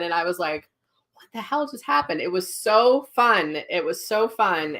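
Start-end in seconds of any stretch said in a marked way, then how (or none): 1.1-2.2 retold bewilderment. Reacting to the psychic's validation remark, retold bewilderment. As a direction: voice your own bafflement in retelling. Retells her stunned reaction.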